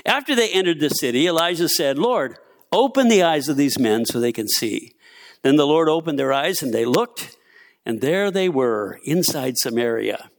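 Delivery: measured, lively Bible story narration; scripture reading. A narrator's reading. Preacher reads Second Kings to the church, measured scripture reading. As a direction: read the passage out to the room.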